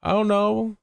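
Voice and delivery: high-pitched mock flustered apology; hammed-up panicked self-apology. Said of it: "I'm like".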